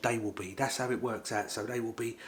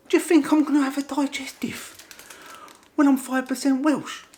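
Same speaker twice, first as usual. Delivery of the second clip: very high, loud, screechy indignation; hammed-up yell at an insulting offer; mock outrage; 10 dB louder than usual. New Welshman refuses a biscuit, mock outraged shout.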